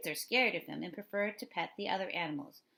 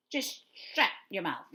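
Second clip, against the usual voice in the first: put-on slow, curt Philly-accent put-down; mean Philadelphia accent; 4 dB louder than usual. A narrator's reading. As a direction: brush the kid off in a Philly accent. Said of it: "mean-sounding Philadelphian accent".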